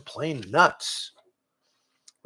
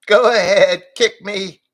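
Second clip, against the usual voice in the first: louder, higher glum goat voice; gloomy goat; 7 semitones higher, 11 dB louder than usual. A narrator's reading. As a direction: offer it like a martyr goat. Goat offers his rump.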